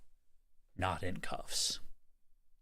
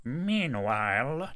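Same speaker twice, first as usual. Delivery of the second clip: slow, drawn-out Meanwhile, higher; dramatic announcer; 6 semitones higher, 5 dB louder, much slower than usual. Pretend. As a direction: stretch it like a trailer voice. Echoing dramatic scene transition.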